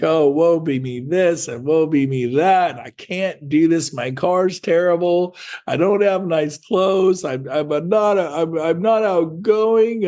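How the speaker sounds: wallow in self-pity, hammed-up; whiny misery. Agent wallowing in misery to himself, mock whiny. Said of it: "Some people go to misery".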